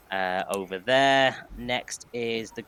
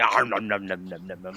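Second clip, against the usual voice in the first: munching noises; 4 semitones lower than usual. Acted. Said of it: "and then just immediately say".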